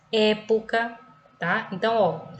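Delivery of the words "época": "época" with the opening É stressed; stress on first syllable. Shown as a demonstration. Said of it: "pronunciamos o E com mais intensidade".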